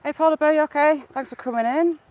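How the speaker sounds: bright, high, loud hello to a viewer; cheery greeting. Real, not acted. Welcoming a viewer who joined the stream, cheerful and high.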